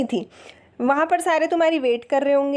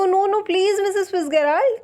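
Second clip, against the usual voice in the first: mild moan; 4 semitones higher than usual. Retold or imitated. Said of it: "Mrs Fitzgerald moaning".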